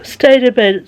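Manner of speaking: talking through a yawn. Real, not acted. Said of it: "Sorry if I yawned".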